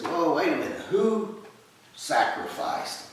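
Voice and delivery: startled objection. Retold or imitated. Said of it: "he objects, and he says".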